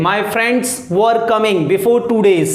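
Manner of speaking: slow, careful teaching read; slow model sentence. Shown as a demonstration. Teacher modelling the translation for students, slowly. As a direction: spell it out slowly for learners. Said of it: "दो दिन पहले मेरे दोस्त आ रहे थे".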